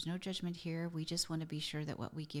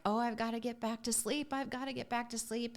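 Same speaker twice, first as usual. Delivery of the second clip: lightly acted fretting, pitched higher; mock stressed; 6 semitones higher than usual. Fretting to oneself about getting back to sleep, mildly stressed. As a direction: act out a mild sleepless worry, voice raised in pitch. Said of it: "so dang stressful".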